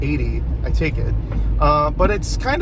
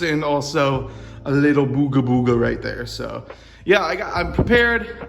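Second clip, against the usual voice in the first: garage reverb. Real, not acted. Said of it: "sorry for the, uh, reverb in here".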